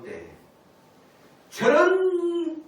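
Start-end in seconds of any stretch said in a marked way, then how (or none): 1.5-2.6 long drawn-out, high and loud exclamation; scandalized disapproval. Acted. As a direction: stretch it out loudly like a tutting onlooker. 이웃들이 혀 차는 장면 재연. (못마땅해서 높고 크게 길게 빼는 탄식)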